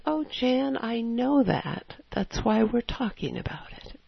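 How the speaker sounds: gently reassure, lingering on "know"; acted tender, patient voice of God; kindly. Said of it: "in the most kindly way".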